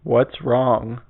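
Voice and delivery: imitating a toneless host; monotone. Imitating the show host asking a crying contestant, monotone. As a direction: ask it with no concern in the pitch. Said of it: "Fucking mono".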